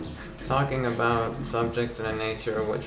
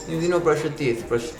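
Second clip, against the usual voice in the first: character voice; 5 semitones higher, slower than usual. Acted. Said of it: "I did a man of diminished moral character".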